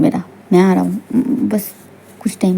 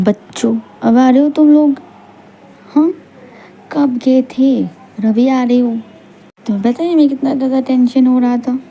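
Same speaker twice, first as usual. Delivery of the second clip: worried, reproachful questioning; mother's scolding; 2 semitones higher than usual. Acted. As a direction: scold the children for coming home late. Mother scolds children for coming late. (माँ की चिंता भरी डाँट)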